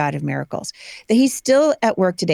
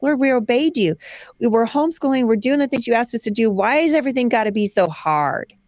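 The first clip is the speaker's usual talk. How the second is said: higher, aggrieved plea to God; pleading prayer; 5 semitones higher than usual. Retold or imitated. Family in hard times crying out to the Lord, aggrieved plea. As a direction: complain to the Lord, worn out.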